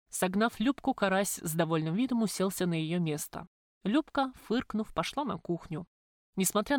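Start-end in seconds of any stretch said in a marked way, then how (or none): none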